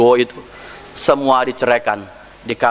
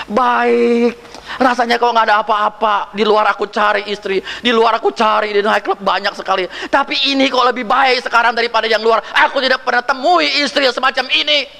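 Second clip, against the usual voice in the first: puzzled husband; 8 semitones higher than usual. Retold or imitated. Suami heran tentang istrinya.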